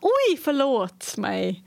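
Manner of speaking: slow, stretched "Oj, förlåt mig"; drawn-out apology. Retold or imitated. Bumping into someone in Sweden, slow drawn-out apology. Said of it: "Like if I bump into someone".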